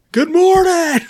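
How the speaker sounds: loud hammed-up good morning across the yard; really loud greeting. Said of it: "really loud".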